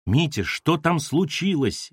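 a touch of worry, words stretched out; anxious call from afar. Acted. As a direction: call over a distance with mild alarm. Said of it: "издалека тревожным голосом спросила Ольга".

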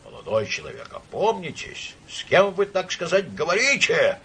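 indignant, high-pitched reprimand; outraged rebuke; furious outcry. A narrator's reading. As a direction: start aghast, then rise into an angry cry. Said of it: "яростно закричал Иван Ильич".

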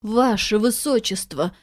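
plain reading voice

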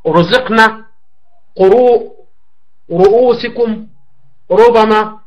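رزقنا with a thick, emphatic r on the u vowel; teacher giving model words with a heavy r. Shown as a demonstration. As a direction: carefully sound the heavy r in رؤوسكم and ربما. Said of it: "أو مضمومة مثل".

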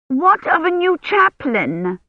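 won't let him go without an answer; insistent. A narrator's reading. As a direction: Hermione pressing the envoy. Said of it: "Hermione insisted".

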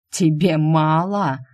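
slow, loud, commanding promises; tempting deity. Acted. Dark deity tempts Shu with power, slow looming voice. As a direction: press the offer like a god bending her will. Deity answers Shu's refusal.

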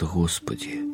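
high, hushed cry to God; anguished cry. A narrator's reading. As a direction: groan it out in despair. Narrator's anguished exclamation. (отчаянный тихий возглас)

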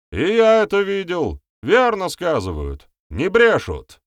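high, loud shout of confirmation; insistent cry, voice pitched far up. A narrator's reading. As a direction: shout your backing from the crowd. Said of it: "крикнул второй мужчина".

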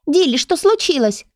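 high squeaky voice; squeaky little book. Acted. The tiny book squeaks at Dilly, worried. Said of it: "пропищала книжка-малышка".

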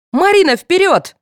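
high, loud rallying call; excited urging. A narrator's reading. Girl hurrying Marina to the final, excited. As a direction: spur a friend into running. Girl urges friend to race off.

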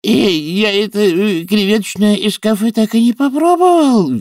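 high-pitched, loud complaint; loud, high outcry of dismay; crying out. A narrator's reading. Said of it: "вскричал преподаватель современных рун".

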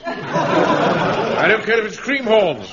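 indignant outburst. Acted. Captain fumes about American troops.

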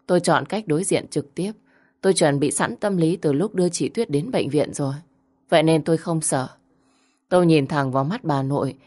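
usual speaking voice

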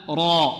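heavy, full-mouthed را; thickened tafkhim r on را. Shown as a demonstration. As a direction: say را with a thick, emphatic r. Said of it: "ماذا نقول هنا؟".

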